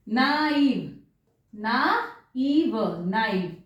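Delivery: नाइव as na-EEV, drawn out then whole; both vowels sounded. Shown as a demonstration. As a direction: stretch नाइव into two separate vowels for learners. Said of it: "दोनों pronounce होंगे".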